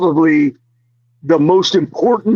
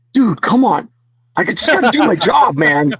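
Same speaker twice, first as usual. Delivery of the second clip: higher, pleading guard voice mimicked; annoyed security guard; 5 semitones higher than usual. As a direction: imitate a weary guard begging him to stop. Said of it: "a knock on my door and be like".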